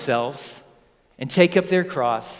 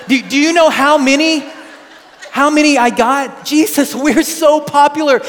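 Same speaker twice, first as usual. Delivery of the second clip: much higher and louder, giddy bragging; boastful Peter; 6 semitones higher, 6 dB louder than usual. Retold or imitated. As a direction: crow about your selfie likes. Peter boasting about fame.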